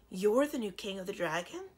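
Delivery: a touch of astonishment; astonished. Acted. Princess learning Kazul is the new king, mildly astonished. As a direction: ask it in mild disbelief. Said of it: "asked in astonishment".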